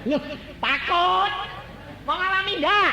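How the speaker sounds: high, loud mock-surprised tease; teasing challenge. Preacher teasing congregation who seem afraid, high loud mock challenge. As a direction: needle the crowd playfully.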